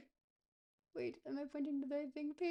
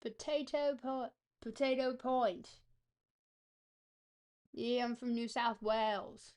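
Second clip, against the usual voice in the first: put-on practised Australian accent with restarts. Player posing as a local from New South Wales, Australian accent. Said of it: "I'm, I'm getting it".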